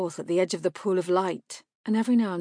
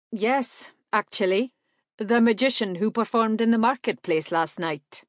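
polite stranger; 4 semitones higher, 5 dB louder than usual. A narrator's reading. Evandar answers.

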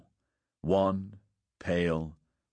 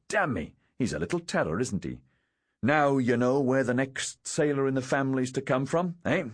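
jovial, higher-pitched boast; grinning; 7 semitones higher than usual. A narrator's reading. Father joking to lieutenant about his son, grinning boast. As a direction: boast heartily with a grin. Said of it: "Lurie grinned".

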